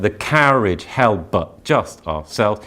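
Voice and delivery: "carriage" leaned on, slow; slow metered reading. Shown as a demonstration. Teacher testing the rhythm of the line. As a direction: weigh the beats of the line. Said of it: "our emphasis does go slightly different".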